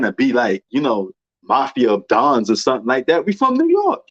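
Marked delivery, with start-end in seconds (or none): 3.3-4.0 emphatic. Real, not acted. Defending his way of talking.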